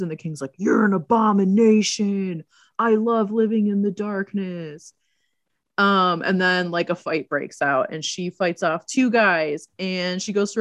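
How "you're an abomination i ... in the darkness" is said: lightly voiced, drawn-out denunciation; slow, theatrical pronouncement; mock villain king. King answering her dad's praise, slow mock villain.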